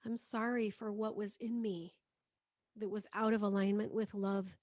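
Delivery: prayer that softens into a whisper at "please forgive me"; spoken prayer, whispered end. Acted. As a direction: let it sink to a breath by the last thanks. Prayer to the world.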